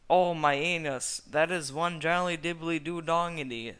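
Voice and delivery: a silly squealing villain voice; hammed-up Lord Farquaad. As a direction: ham it up like a pompous little lord. Lord Farquaad voiced in pain-pleasure.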